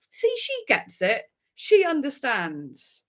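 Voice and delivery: high, drawn-out approval; exaggerated grateful relief; mock vindication. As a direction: stretch it out like you finally feel understood. Relieved praise of the gentler teacher.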